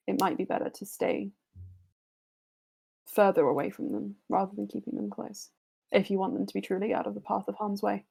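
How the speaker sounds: measured, serious counsel to heroes; calm warning from a wise figure; lightly voiced sage warning; earnest NPC advisor. NPC gives advice in character.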